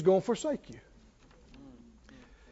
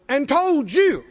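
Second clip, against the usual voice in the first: higher and louder, building to a shout; fiery preaching; 7 semitones higher, 4 dB louder than usual. Acted. Pastor driving the promise home to the congregation, full-force preaching. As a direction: preach it with mounting fire.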